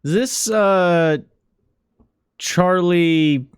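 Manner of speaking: lightly voiced nervous clerk; hesitant, apologetic phone call; apologetic morgue clerk.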